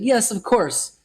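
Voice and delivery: mock British, pitched well up; reply like an imagined Brit, high-voiced; British accent. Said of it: "in a British accent".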